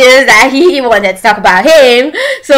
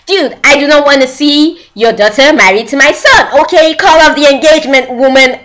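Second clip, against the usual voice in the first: taking control; 4 semitones higher than usual. Retold or imitated. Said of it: "took control and she said".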